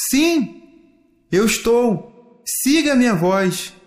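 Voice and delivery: sweet voice. A narrator's reading. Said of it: "uma voz doce".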